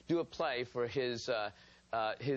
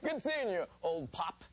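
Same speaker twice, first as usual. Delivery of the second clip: put-on generic old man greeting; 3 semitones higher, slower than usual. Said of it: "Generic old man".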